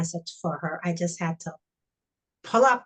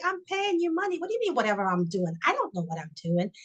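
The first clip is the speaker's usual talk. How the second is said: retold anger; 4 semitones higher, faster than usual. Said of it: "I got pissed off at him".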